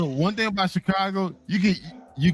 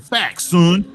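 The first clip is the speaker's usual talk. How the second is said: mock exclamation; 7 dB louder than usual. Mimicking New York woman's slang.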